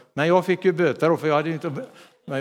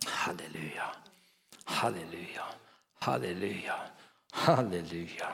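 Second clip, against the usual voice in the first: softly breathed hallelujas, much softer; hushed praise; 10 semitones lower, 12 dB quieter than usual. Real, not acted. Pastor to congregation, hushed worshipful hallelujas. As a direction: whisper the praise to God.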